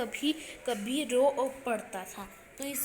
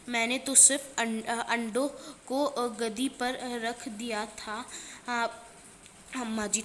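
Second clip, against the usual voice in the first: a mildly weepy plea, a bit louder; a touch of a sob in the excuse; tearful pleading; 3 dB louder than usual. Acted. Keshav tells his mother he only moved the eggs, mildly tearful. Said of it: "रोनी सूरत बनाकर बोली".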